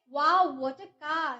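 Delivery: drawn-out, wonder-struck exclaim; amazed wow. Shown as a demonstration. Teacher showing an interjection, amazed. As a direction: let the wow spill out in awe. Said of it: "आपके मुंह से suddenly ये feelings आए".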